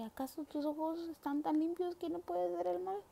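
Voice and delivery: challenging God with disbelief; indignant challenge. Retold or imitated. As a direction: demand an answer, baffled and upset. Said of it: "entonces le dice así como que".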